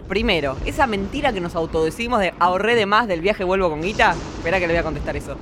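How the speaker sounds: low, sneering villain voice; sneering panto villain. Acted. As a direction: play the gloating baddie. Esa risa maléfica.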